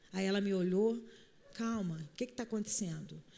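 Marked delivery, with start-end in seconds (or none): 1.5-3.2 low hushed calming question; softly calming. Retold or imitated. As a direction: keep it hushed to cool her down. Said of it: "comecei a falar mais baixo que ela". (calma, falando baixo)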